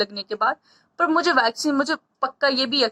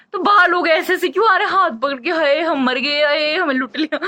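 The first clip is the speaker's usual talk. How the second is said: mock wailing; 4 semitones higher, 3 dB louder than usual. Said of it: "मैंने वही nurse को बोला".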